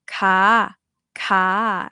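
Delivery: "ka" long and open, with no closing stop; final B removed. Shown as a demonstration. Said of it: "remove the bob and mai".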